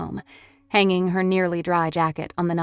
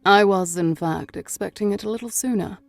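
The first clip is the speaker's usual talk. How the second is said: put-on purring British accent. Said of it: "a purring British accent".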